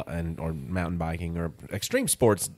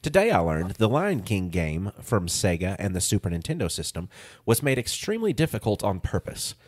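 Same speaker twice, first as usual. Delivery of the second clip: reading aloud. Real, not acted. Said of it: "It says".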